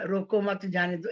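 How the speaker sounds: "रोको मत, जाने दो" run together as one phrase; said in one line. Shown as a demonstration. Teacher showing how meaning is left to the listener, said in one line. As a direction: say "रोको मत, जाने दो" straight through, without a break. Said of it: "एक ही line में बोल दिया".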